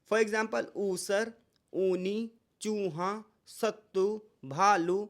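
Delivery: ऊसर, ऊनी said slowly with a long ऊ; long ऊ demo. Shown as a demonstration. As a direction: draw out the ऊ. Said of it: "ऊ जो है वो दीर्घ स्वर है". (लंबे ऊ का उच्चारण)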